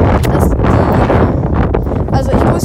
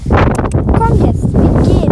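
high, louder call to the horse; 6 semitones higher, 5 dB louder, much slower than usual. Real, not acted. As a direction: urge the horse to move on. Ruft das Pferd zum Weitergehen. (lauter, hoher Ruf ans Pferd)

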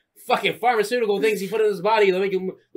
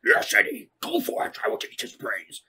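hammed-up alien symbiote; Venom voice; 10 semitones higher than usual. Friend mocking Tom Hardy's Venom, lightly voiced. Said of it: "Perfect, perfect impression".

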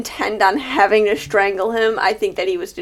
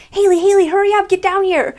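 calling out; 9 semitones higher than usual. Retold or imitated. Mom calling her from downstairs.

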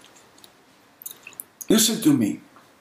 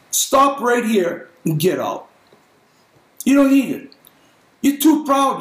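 rebuking shout; 4 semitones higher, 3 dB louder than usual. Real, not acted. Preacher rebuking congregation.

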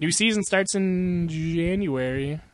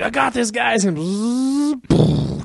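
a little higher, cocky; lightly voiced truck; 7 semitones higher, much slower than usual. Fatty telling the guys he's got it, lightly higher cocky voice. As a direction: brag it like a doomed cartoon plane.

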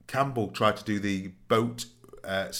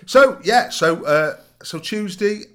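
laughing; 11 semitones higher, 10 dB louder, slower than usual. Real, not acted. Restarting after a laugh.

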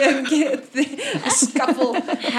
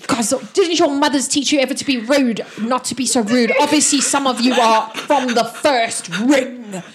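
raised-voice scolding, a mild shout; 2 semitones higher, 3 dB louder than usual. Acted. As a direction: scold onlookers and end in an insult. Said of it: "when he shouts that".

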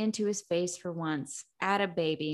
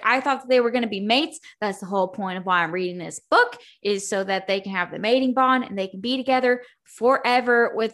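ranting; 4 dB louder than usual. Retold or imitated. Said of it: "I was like".

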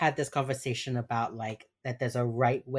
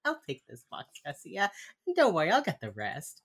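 softer, understated imitation of a helpful boss; retold reassurance; 4 dB quieter than usual. Hotch retold offering Garcia help, mild reassurance. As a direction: reassure lightly, voice dropped. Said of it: "and Hotch is like".

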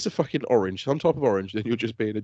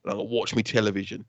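mock London accent; 3 semitones lower than usual. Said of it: "she's like".

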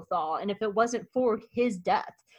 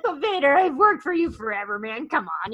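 whiny plea; 5 semitones higher, 4 dB louder than usual. Retold or imitated. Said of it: "And he's like".

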